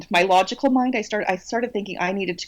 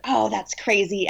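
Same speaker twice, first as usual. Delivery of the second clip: dismissive grandma. Retold or imitated. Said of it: "as if that's crazy".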